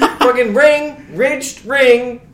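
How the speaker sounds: loud, exasperated insisting; exasperated shout. Real, not acted. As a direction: shout it out in frustration. Frustrated insisting to friends.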